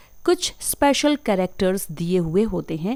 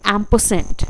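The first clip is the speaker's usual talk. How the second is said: एम्परसेंड in British accent with no r, "am-pe-send"; 3 dB louder than usual. Shown as a demonstration. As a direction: drop the r in एम्परसेंड, British style. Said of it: "British में अगर pronounce करेंगे".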